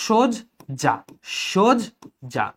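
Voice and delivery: "সজ্জা" slowly as shod, pause, ja; closed o, split. Shown as a demonstration. Teacher modelling for students, slow "সজ্জা" split shod - ja. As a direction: say "সজ্জা" with rounded o and a gap. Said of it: "ও দিয়ে উচ্চারণ করেছি".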